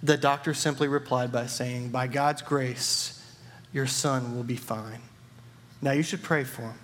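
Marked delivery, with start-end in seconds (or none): 1.9-6.8 calm reassurance. Acted. Doctor calmly reassures the father.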